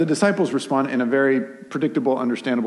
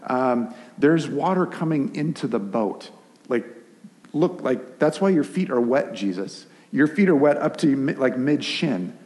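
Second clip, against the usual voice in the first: mouthy Peter; 2 semitones higher than usual. Retold or imitated. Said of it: "and so he says".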